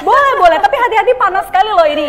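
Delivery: loud, eager warning; excited host. Acted. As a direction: hype up the viewers. Excited host warning about heat.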